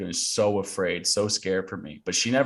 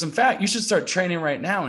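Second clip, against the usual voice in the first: high, eager retold urging; enthusiastic mom; 10 semitones higher, 4 dB louder than usual. Mom urges bedridden son to train, eager. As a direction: imitate a mother pushing him to begin. Mom cheering on son's goal.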